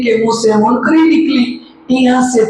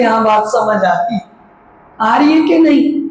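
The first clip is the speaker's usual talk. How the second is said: higher and a bit louder, pressing for an answer; louder, higher repeat. Shown as a demonstration. Preacher repeats the question to the congregation, higher and insistent. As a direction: push the question up to wake them. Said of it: "मैं थोड़ा धीरे बोल रही हूँ".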